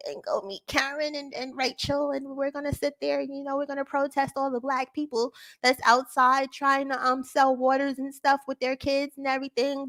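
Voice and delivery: breezy self-satisfied Karen, a soft mocking parody; a hint of a smug suburban Karen. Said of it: "she thinks she's somebody named Barbara".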